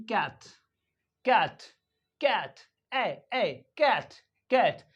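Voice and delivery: CAT with the front 'ae' vowel; American short A. Shown as a demonstration. Teacher showing American English A, front 'ae' in CAT. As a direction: say cat and ए with a flat-tongued 'ae'. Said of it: "ए को पढ़ते ए".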